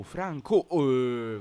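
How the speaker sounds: sudden high exasperated yell; frustrated shout. Real, not acted. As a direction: blurt it out in dismay. Goal conceded, frustrated outburst.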